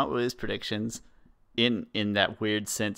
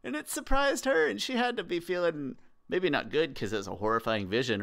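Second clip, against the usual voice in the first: much higher, emphatic insistence; impassioned defence; 6 semitones higher than usual. Real, not acted. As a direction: plead her case with rising indignation.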